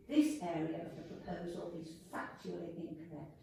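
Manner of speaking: talking around braces; slightly lisped speech through braces. Real, not acted. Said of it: "Sorry, I've got braces on".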